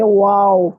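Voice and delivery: वाव with rounded lips, a W sound; rounded waw. Shown as a demonstration. Teacher demonstrates the letter, rounded waw. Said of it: "होंठों को गोल करके".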